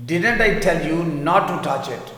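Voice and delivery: slow, calmer repeat; teacher repeats the sentence slowly. Shown as a demonstration. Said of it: "میں نے کہا تھا نا اسے ہاتھ مت لگانا".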